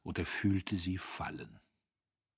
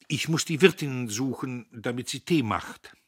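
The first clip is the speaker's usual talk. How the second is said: put-on louder, higher young man's voice, amused; a cocky young man laughing off an old story; Dietrich amused; 5 semitones higher, 7 dB louder than usual. Dietrich tells Agnes, amused at himself, louder.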